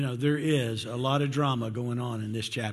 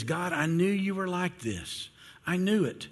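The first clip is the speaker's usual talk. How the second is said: higher-pitched mock complaint to God; retold complaint; 5 semitones higher than usual. Preacher voices Jonah complaining to God, mildly exasperated. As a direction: complain as if proven right. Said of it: "he's about to complain".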